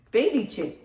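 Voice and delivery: ordinary delivery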